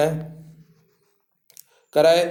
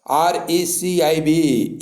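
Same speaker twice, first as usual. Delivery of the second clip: slow spelling; 3 semitones higher, much slower than usual. Shown as a demonstration. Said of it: "अब इसमें देखिए".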